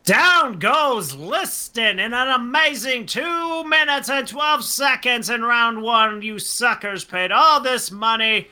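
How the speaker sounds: slow, shouted ringside call; boxing announcer. Retold or imitated.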